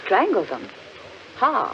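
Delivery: a short laugh breaking into the question; amused scoff at a silly tale; laughing disbelief. Acted. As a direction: laugh it off as nonsense. Scoffing at the tree story.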